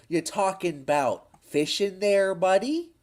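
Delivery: lightly done surfer impression. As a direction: slip into the streamer's buddy voice. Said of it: "I'll do the voice".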